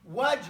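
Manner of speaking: Waj with the air let out at the end; breathy Waj. Shown as a demonstration. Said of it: "make, like, a pause on it".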